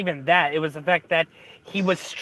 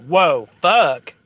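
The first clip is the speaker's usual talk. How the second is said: put-on Southern accent; 6 dB louder than usual. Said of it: "she has this horrible Southern accent".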